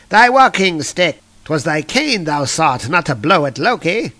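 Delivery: a hammed-up villain catching on; sudden theatrical alarm, then settling; startled villain. Loki realizing the trick.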